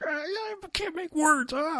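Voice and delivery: imitating someone so mad they can't talk; too angry for words. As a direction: choke on the words in a hammed-up high squeak. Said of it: "not just like".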